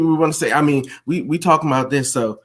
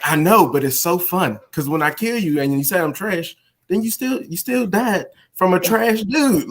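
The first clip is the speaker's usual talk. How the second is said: gleeful comeback; 5 semitones higher than usual. Retold or imitated. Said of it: "and I'll be like".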